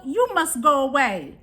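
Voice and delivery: lightly voiced gruff buffalo sending the ram away. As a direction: push the ram off with mild gruffness. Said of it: "he mooed in a manner so tuffalo".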